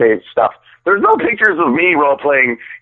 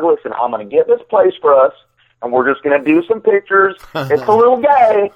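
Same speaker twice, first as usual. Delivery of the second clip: slightly raised imitation of someone making a pitch; lightly voiced role; 5 semitones higher than usual. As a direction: retell the pitch lightly in character. Acts out Timbo's photographer pitch.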